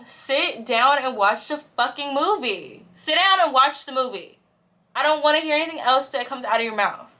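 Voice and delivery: retold scolding with emphatic stresses; exasperated scolding. Telling the fidgeting stranger to watch the movie, scolding. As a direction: order them to behave, thoroughly fed up.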